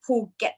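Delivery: "Phuket" as "Poo-get"; correct Thai pronunciation. Shown as a demonstration. Teacher repeating the island's name, "Phuket" as "Poo-get". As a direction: say "Phuket" with a P sound and a short "get". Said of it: "something like this".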